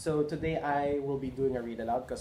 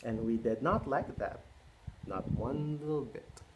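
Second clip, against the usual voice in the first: storybook read-aloud. A narrator's reading. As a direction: read it like bedtime story time. Reading picture book to kids.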